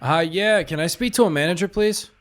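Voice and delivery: prank caller voice. Pretend. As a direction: fake earnest caller. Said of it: "We've been doing prank calls".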